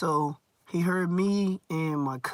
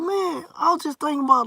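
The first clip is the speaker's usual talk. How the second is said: friend's voice; 10 semitones higher than usual. Retold or imitated. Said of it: "He like".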